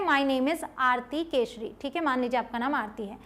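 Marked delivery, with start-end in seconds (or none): 0.0-1.7 slow example sentence. Shown as a demonstration. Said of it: "एक example आप देख सकते हैं".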